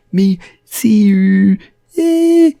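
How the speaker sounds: loud, high, slow grunt; grunting bloke. Retold or imitated. Other mate grunting at Barry, loud and high. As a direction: bark it like a caveman.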